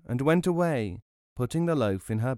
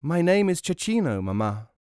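high-voiced little pea boy; 6 semitones higher, 3 dB louder than usual. A narrator's reading. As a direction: introduce yourself as a small child. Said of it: "And he said".

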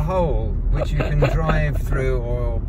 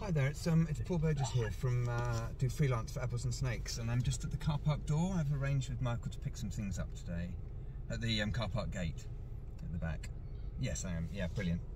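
softer, phone call voice; 12 dB quieter than usual. Real, not acted. Calling the venue about a pickup, softer phone voice. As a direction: talk quietly into a phone. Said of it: "ระหว่างที่คุณฟังพี่ปอคุยโทรศัพท์".

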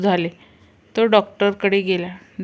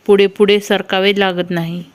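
put-on louder, laughing boy's answer; laughing punchline; 3 dB louder than usual. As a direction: blurt it out through a laugh.

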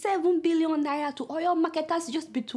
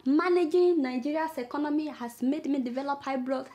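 mock wailing. Mock lament over economy.

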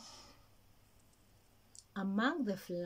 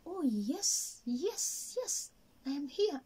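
higher, eager yes yes yes; eager rabbit; 6 semitones higher, slower than usual. Acted. Rabbit eagerly agreeing to mind the eggs. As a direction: jump at the chance to help.

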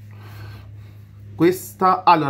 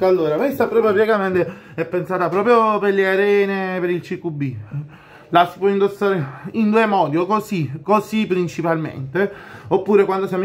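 muffled by cloth covering; speaking behind fabric balaclava; through a face mask; 4 semitones higher than usual. Real, not acted. Seen 4: Skull-print balaclava covers mouth and nose from 4.9s; pulled down by 16.3s.

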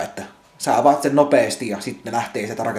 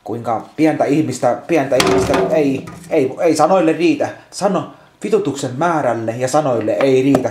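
real exasperation; 2 semitones higher, 4 dB louder than usual. Real, not acted. Building exasperated outburst. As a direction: voice climbing louder in real frustration. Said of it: "voin sanoa, että nyt voi vituttaa".

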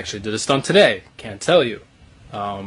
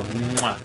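smacking kiss sound; big "mwah" kiss; blown kiss. Real, not acted. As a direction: blow an audible kiss to the viewers. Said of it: "send a kiss to Brazil".

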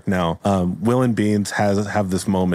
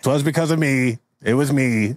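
put-on old bitter Pork; 5 semitones higher than usual. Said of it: "He's old and bitter".

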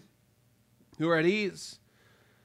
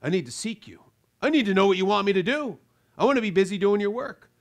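repentant prayer. Pretend. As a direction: fall before God, then rise with resolve. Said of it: "truly repentant will fall on their face and say".

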